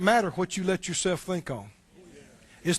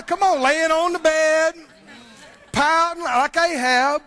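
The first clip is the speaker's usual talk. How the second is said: mock pouting; 7 semitones higher, 5 dB louder than usual. Preacher mocking sulking Ahab.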